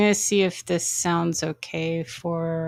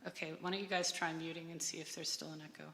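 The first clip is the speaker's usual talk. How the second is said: down a well; 20 dB quieter than usual. Real, not acted. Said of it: "Now you sound like you're down a well".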